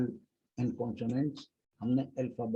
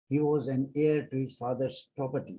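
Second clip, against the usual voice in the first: slow example; much slower than usual. Shown as a demonstration. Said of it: "example sentence read slowly".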